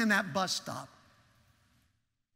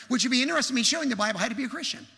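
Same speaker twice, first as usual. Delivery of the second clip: loud, high, rapid-fire question; fast, pushy pitch at raised volume; forceful witnessing pitch; 5 semitones higher, 5 dB louder, much faster than usual. Retold or imitated. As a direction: rattle it off loudly in one breath. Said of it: "that's about the way I said".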